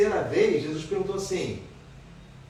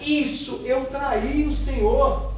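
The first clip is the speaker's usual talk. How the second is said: Peter confessing; 9 semitones higher, 6 dB louder, much slower than usual. Acted.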